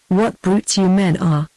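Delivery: slow, lightly voiced scorn; a touch of contempt, drawn out slowly; wild scorn. A narrator's reading. Dorcas scorning the men over the duel, slow mild scorn. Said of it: "with a wild scorn in her look and accent".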